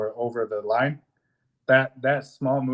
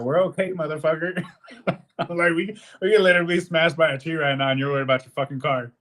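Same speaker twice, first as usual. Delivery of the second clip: higher, indignant sneer at the neighbor; sarcastic scolding; 5 semitones higher, faster than usual. Retold or imitated. Driver mocking the neighbor who ignored them, indignant sarcasm. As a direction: call him out for caring about his car.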